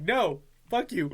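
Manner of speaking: light, comic indignation; retold upset. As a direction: replay the annoyed brush-off for laughs. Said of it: "to me being very upset".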